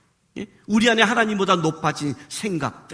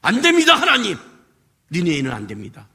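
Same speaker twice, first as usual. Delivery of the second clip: Jonah protesting; 5 semitones lower than usual. Retold or imitated. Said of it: "요나가 갖고 있는 것".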